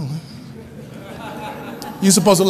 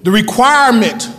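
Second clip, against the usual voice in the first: "requirement" leaned on firmly as the key word; weighty, emphatic "requirement"; emphasis on requirement. Real, not acted. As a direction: stress the word "requirement", then let it fall. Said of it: "emphasis on the word requirement".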